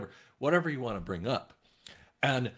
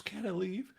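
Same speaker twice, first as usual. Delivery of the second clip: breathy whisper, mock tearful; whispered plea; 6 semitones higher, 4 dB quieter than usual. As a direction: whisper it like she's close to tears. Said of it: "She goes".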